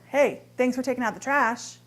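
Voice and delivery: dry thanks with a pointed Hey; sarcastic. Shown as a demonstration. Wife mocking husband over the trash, sarcastic thanks. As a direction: say thanks but mean the opposite. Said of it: "one can be full of sarcasm".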